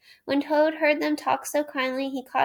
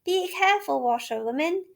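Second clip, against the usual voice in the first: warning call; 6 semitones higher than usual. A narrator's reading. Gentleman warning the speeding washerwoman. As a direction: call out a caution. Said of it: "call out warningly".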